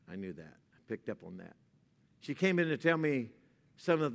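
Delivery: soft, low sermon voice; tender preaching. Real, not acted. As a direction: speak gently about mothers.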